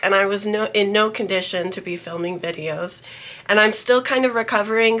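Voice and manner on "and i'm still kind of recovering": stuffy nose from a cold; nasal sick voice. Real, not acted. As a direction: talk through a blocked nose, a bit nasal. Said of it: "so if you hear a little nasally voice".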